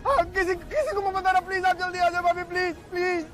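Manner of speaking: frantic, tearful pleading; panicked pleading. Acted. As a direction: beg for help in panic. Panicked call after accident.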